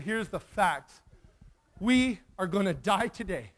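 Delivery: measured, grave-sounding retold announcement; mock-solemn statement of the facts; pulled together. Boy breaks the news to his friend, pulled together. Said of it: "I kinda pulled myself together".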